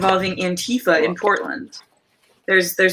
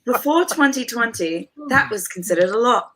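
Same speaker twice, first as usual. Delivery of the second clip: a light British accent; 3 semitones higher than usual. Shown as a demonstration. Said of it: "oh, I forgot the accent".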